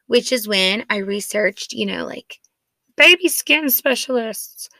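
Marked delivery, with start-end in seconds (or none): 3.0-4.7 high, slow mock thinking voice; raised, drawn-out voice, as if searching; imitating inner voice. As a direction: put on a slightly silly research voice. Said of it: "my voice was actually way prettier in my mind".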